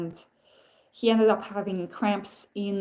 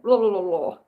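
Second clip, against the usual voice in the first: slurred mumble; 4 dB louder than usual. Retold or imitated. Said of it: "sounds like slurred speech".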